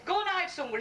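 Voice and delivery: urgent mock panic. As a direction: imitate a wife caught out. Wife hurries lover into hiding.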